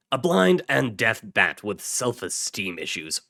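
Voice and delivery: put-on rally the boys with firm, punchy delivery; squad leader's briefing. Task force leader briefing his boys, loud and emphatic.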